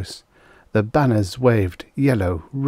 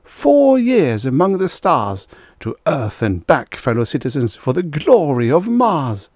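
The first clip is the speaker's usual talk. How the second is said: public address; 6 semitones higher, 5 dB louder than usual. A narrator's reading. Mayor continues his speech.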